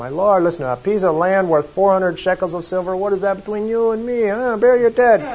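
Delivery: put-on Bronx accent. Retelling a man offering a piece of land for free, in a bronx accent. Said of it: "maybe as a Bronx accent".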